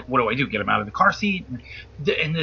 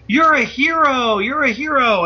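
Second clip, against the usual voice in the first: higher, louder imitation of admirers; excited praise; 7 semitones higher, 4 dB louder than usual. Cops suddenly cool with the driver, excited mock praise. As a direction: gush it in quick, repeated acclaim.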